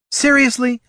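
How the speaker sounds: high, hollered disbelief. A narrator's reading. Mage interrupting the squabbling pair, hollered. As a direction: holler it across a fight. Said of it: "hollered Loruna".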